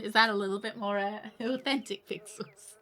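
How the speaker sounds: mock French accent. Streamer asking viewers if it's authentic, mock French accent. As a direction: put on a light French accent. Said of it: "say it with a French accent".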